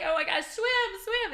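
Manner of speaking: high, loud pool yell; acted-out urgent shouting; frantic urging. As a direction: shout frantically to get them swimming.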